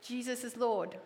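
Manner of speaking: put-on soft hushed child's answer; barely above a breath; little girl answering her mother softly; quiet.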